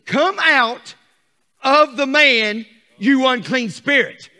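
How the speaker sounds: loud, high command to the spirit; commanding Jesus. Acted. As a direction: cast the spirit out with force. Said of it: "Watch what Jesus says".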